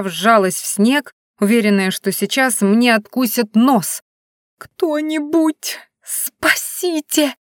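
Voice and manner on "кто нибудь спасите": high, slow cry for help; a frightened call for rescue; desperate plea. Acted. Heroine's desperate inner plea.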